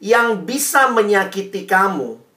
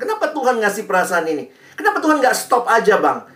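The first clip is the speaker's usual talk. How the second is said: mock complaining; 4 semitones higher, faster than usual. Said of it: "mulai salahin Tuhan".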